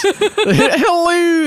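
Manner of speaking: very high, laughing Dutch "hello"; squeaky mock Dutch greeting; Davy Jones gone Dutch. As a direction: sing out a silly Dutch hello. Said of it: "Davy Jones would have sounded ridiculous".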